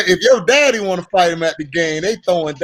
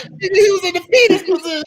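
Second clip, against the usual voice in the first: coach's voice; 10 semitones higher, faster than usual. Retold or imitated. Coach explaining the big hit, high and fast. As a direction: bark it like the excitable coach. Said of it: "He was like".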